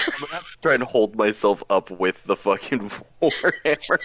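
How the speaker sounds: talking through real laughter; laughing hard. Real, not acted. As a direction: get the words out between laughs. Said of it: "as I'm laughing so fucking hard".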